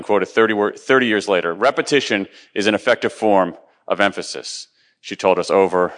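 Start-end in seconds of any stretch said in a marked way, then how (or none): 1.5-4.7 each word laid down like a rule; quoting her exact words. Retold or imitated. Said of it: "Her exact words".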